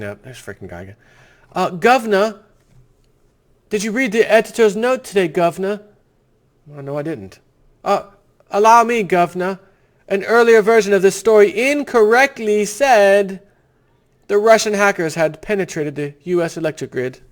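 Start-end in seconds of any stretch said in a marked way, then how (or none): 1.5-5.8 higher, fawning, pleading mock deference; mock servile aide. Host playing a groveling aide to the governor, mock servile. 7.8-16.6 higher, fawning, pleading mock deference; mock servile aide. Host playing a groveling aide to the governor, mock servile.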